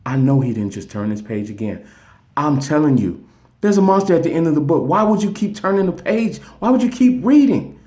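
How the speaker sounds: frustrated Grover. Retold or imitated. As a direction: let the puppet voice climb as he loses patience. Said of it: "now Grover is like".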